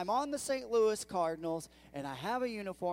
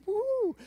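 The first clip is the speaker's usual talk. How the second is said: high, loud cheer of delight; excited whoop; 9 dB louder than usual. Pretend. Pastor imagining his own excitement at the contract, whooping. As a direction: whoop like a kid who just got signed.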